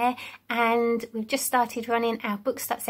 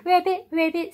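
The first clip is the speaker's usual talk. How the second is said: frog ribbit; 5 semitones higher, 3 dB louder than usual. Shown as a demonstration. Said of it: "sounds of the animals".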